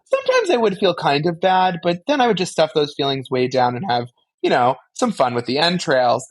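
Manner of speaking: high, fast, breezy rambling; chatty monologue. Pretend. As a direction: babble it like a chirpy oversharer. Anya monologuing bit.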